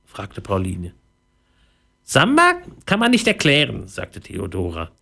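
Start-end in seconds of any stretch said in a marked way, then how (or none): 2.0-3.9 very high, tiny mouse voice; squeaky little voice. A narrator's reading. Mouse to a newcomer behind her, high squeaky voice. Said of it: "ein piepsendes Stimmchen".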